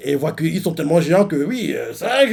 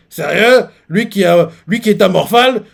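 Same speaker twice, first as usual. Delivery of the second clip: surprised; 6 semitones higher, 9 dB louder than usual. Real, not acted. Amazed Luffy ate so little.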